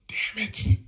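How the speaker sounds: high, forceful exclamation of frustration; angry retold curse. Son hearing his father hit his mother, angry outburst. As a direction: let the curse burst out. Retells his furious reaction.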